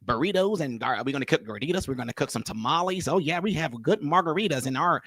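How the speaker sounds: mock a very plain white cook; softly parodying a white restaurant owner; pale white guy impression. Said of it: "white people who talk just like this".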